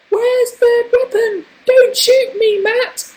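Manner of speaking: very high squeaky child imitation; mock pre-puberty squeal; unbroken boy's voice. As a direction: mimic your younger self before the voice broke. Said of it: "My voice hasn't broken in it".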